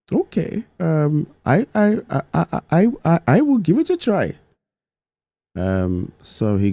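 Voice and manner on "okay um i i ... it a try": put-on hesitant, high-pitched Indian accent. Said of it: "I'll try my best to do the Indian accent".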